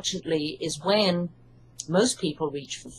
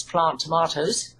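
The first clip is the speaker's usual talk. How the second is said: British pronunciation of tomatoes, short a in plant; English accent; 2 semitones lower than usual. Shown as a demonstration. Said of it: "plant tomatoes in my English accent".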